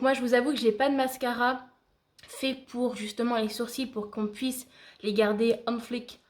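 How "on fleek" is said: "on fleek" said with a playful American accent; a touch of American accent on "on fleek". Shown as a demonstration. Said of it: "On adore mon accent américain".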